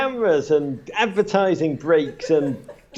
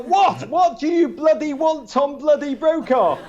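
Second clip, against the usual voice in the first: high, exasperated what, pitched up; mock exasperated retort; 13 semitones higher than usual. Retelling his retort to Brokaw, high and exasperated. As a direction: snap back in a hammed-up high voice. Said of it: "I was like".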